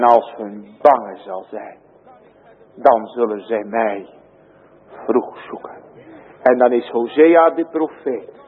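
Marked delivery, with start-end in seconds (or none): 3.1-5.8 breathy whisper at the end of the line. Real, not acted. Preacher to congregation, whispering the ending. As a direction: let the words fall to a whisper. Sermon line dropped to hush.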